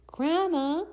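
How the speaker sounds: high, loud call into the house; loud searching call. Acted. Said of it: "she called".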